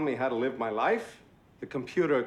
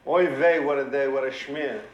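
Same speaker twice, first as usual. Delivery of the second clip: exasperated; 7 dB louder than usual. Acted. Exasperated Yiddish complaint.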